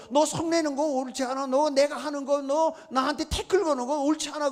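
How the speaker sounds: acted rebuke. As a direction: press the accusation in an acted quarrel. Acting out quarrel between God and Jonah.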